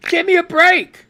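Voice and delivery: exasperated high loud scoff. Real, not acted. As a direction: dismiss it with disgust. Scoffing at the news.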